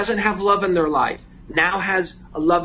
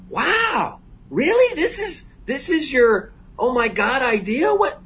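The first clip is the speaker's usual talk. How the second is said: much higher, squeaky disbelief; incredulous; 10 semitones higher, slower than usual. Retold or imitated. The speaker mocking the stranger's idea, high incredulous squeal. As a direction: climb way up, can't believe it. Incredulous retelling of airport talk.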